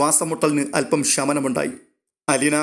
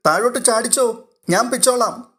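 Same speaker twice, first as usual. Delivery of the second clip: put-on little girl calling; 8 semitones higher than usual. Little girl copies the call.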